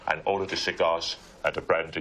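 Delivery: lightly voiced older Cockney actor; a hint of cigars and brandy; Michael Caine. Shown as a demonstration. Friend demonstrating an aged actor, lightly voiced Cockney. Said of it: "It can now be heard".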